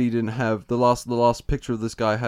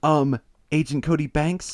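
higher, slow questioning lift; mock tentative prompting; 5 semitones higher, slower than usual. Frankie listing his credits to the guy, mock tentative. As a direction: offer it hopefully, as a hesitant reminder.

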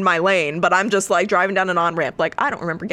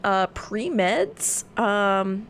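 yawning; 3 semitones higher, much slower than usual. Real, not acted. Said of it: "sorry, I'm yawning for some reason".

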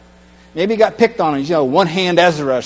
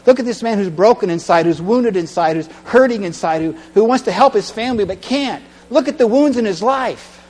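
higher, pressing appeal; urgent rebuke; 4 semitones higher than usual. Acted. Jesus urges the Pharisees to look, pressing and raised. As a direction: confront them earnestly. I think he's trying to say.

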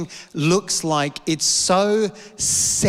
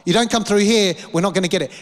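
urgent plea; 3 semitones higher, faster than usual. Retold or imitated. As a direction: beg it like you're at the edge. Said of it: "I'm like".

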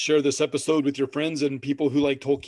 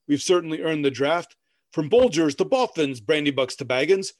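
poem reading. Acted. Reads a hobbit drinking poem.

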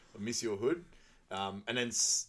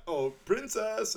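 mock swooning Robin Hood; 12 semitones higher, 5 dB louder, slower than usual. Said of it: "He's like".

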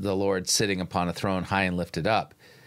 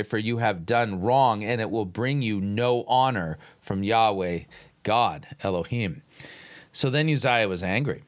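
measured, lowered Bible reading voice; scripture reading. Acted. Pastor reading Chronicles aloud to the congregation, measured and solemn. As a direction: read the passage like a lector.

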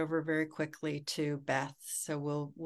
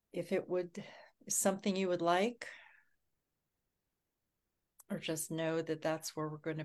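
whisper; faster than usual. Real, not acted. Guided grounding invitation.

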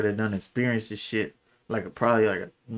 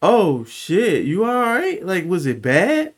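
higher-pitched voice of a worried friend; retold concern in a raised voice; imitating concerned friend; 8 semitones higher, 4 dB louder, slower than usual. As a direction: lift the pitch, questioning, as the friend checking in. Voicing friend checking on crying speaker.

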